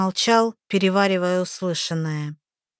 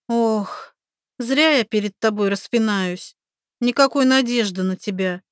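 exasperated; 2 semitones higher than usual. Acted. Oksi exasperated.

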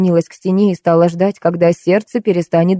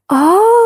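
wail; 12 semitones higher than usual. A narrator's reading. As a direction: let out a high, drawn cry. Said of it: "потом вопль". (высокий вопль)

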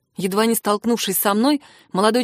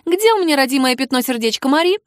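higher, tense demand; angry interrogation cutting him off; near hiss; 5 semitones higher, 4 dB louder than usual. A narrator's reading. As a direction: demand it, almost hissing. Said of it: "Практически прошипела Мэдалин".

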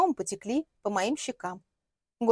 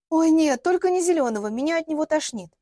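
queasy refusal; 6 semitones higher, 5 dB louder than usual. Acted. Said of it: "queasy refusal".

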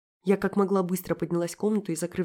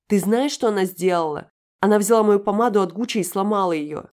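возмущённый крик; 3 semitones higher, 8 dB louder than usual. Acted. Юля возмущённо оправдывается.

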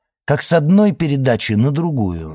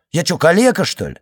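scolding; 4 semitones higher, 4 dB louder, faster than usual. Acted. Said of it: "заругался тот".

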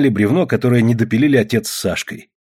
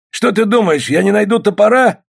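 high, forceful taunting question; raised, menacing shout; angry shout; 10 semitones higher, 4 dB louder than usual. A narrator's reading. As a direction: yell a threat through the door. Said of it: "крикнул ей Полос".

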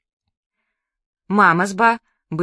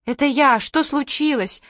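crying out; 6 semitones higher than usual. Acted. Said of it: "выкрикнула мама".

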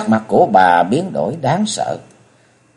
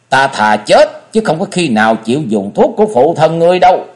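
raised-pitch, indignant refusal; bitterly angry; 6 semitones higher, 4 dB louder than usual. A narrator's reading. Tuyết lão thái thái pushes away the offered medicine, angrily. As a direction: refuse the help with proud anger. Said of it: "rồi căm giận nói".

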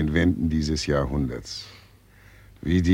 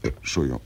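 belch and excuse; 4 dB quieter, much faster than usual. Acted. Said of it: "Warum rülpsen Sie denn fortwährend so ekelhaft".

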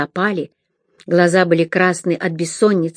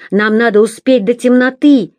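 loud, raised urging; demanding; 5 semitones higher, 5 dB louder than usual. A narrator's reading. Leader urging captors to hurry before dark. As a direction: push them on, impatient. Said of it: "требовал Хорт".

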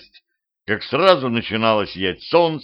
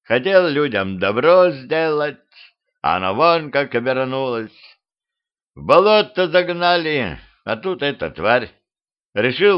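mournful skeleton; 3 semitones higher than usual. Acted. Skeleton tells how it ended in the tree, mournful. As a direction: voice a skeleton bemoaning its fate.

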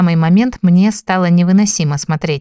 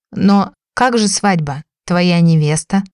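bewildered drawl; slower than usual. Acted. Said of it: "растерянно протянула я".

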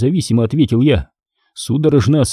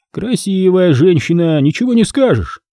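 smirking; 6 semitones higher than usual. A narrator's reading. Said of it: "ухмыльнулся Стригун".

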